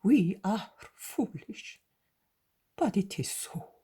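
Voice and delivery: the zealot pleading with his master, anguished. Acted.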